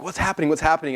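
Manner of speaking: freaking out. Retold or imitated. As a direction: imitate an alarmed wife pressing for answers. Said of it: "she's freaking out".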